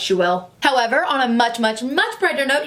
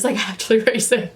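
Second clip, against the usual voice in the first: a real laugh through the words; breathless giggly delivery; laughing while talking; 3 semitones lower, faster than usual. Real, not acted. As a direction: laugh out the words racing heart. Laughing at her own breathlessness.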